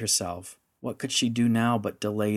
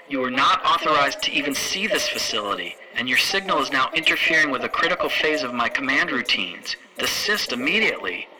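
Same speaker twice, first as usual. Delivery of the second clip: louder, cold official command; stern commanding matron; 4 semitones higher, 5 dB louder than usual. Acted. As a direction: order the intruder to stop. Matron orders intruder out.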